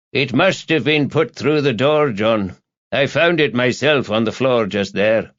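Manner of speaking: lightly voiced veteran desk sergeant; a touch of a lifted character voice; helpful desk sergeant. Desk sergeant explaining the note to Rebus, helpful.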